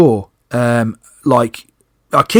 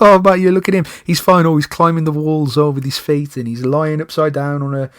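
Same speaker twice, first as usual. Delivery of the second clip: mock dismissive; 3 semitones higher than usual. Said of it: "'cause you're like".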